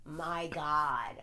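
very slow, drawn out through laughter; helpless laughter. Real, not acted. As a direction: let the words dissolve into laughing. Laughing helplessly after her own rant.

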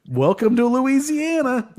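high, laughing mock welcome. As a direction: laugh it out like a stunned tourist. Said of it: "I was like".

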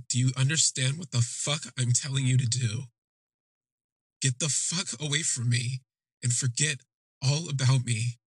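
understated enraged outburst; retold rage. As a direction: retell his anger with restraint. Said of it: "He's enraged".

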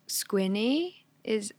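squinny langzaam en duidelijk uitgesproken; dialect word squinny. Shown as a demonstration. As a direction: spell out squinny slowly, each sound clear. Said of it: "is one of the words".

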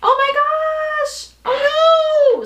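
high, loud, drawn-out mock dismay; hammed-up dismay. Aimed at a distracted mom, hammed-up loud slow dismay. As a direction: stretch out the fake alarm very slowly. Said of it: "I'm just like".

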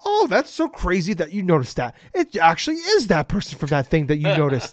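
hint of a staged interviewee's gushing reply; fake scripted amazement. Host mocking interviewee's answer on stage, fake scripted amazement. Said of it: "they do the fake scripted".

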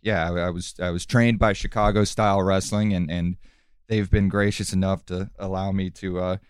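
low calm villain voice; calm menacing wrestler. Acted. Wrestler character interviewed calmly.

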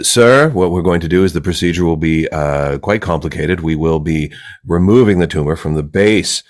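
measured, formal doctor explaining a procedure; lightly acted clinical manner with careful pauses; a hint of a proper physician. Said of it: "when you go into a doctor's office".

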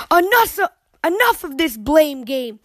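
sharp high shout falling to firm; angry shout. Acted. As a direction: stop the children cold. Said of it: "she shouted".

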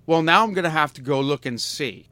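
mock bored saleswoman; bored clerk. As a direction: sound like helping is a chore. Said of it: "so not interested in me at all".

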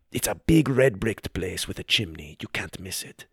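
hushed, secretive waiter voice; confidential waiter. Acted. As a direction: lean in and share a secret.

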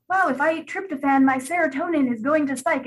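mock excited wellness fan; naive internet voice. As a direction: lightly parody the diet believer. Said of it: "we gotta stop being like".

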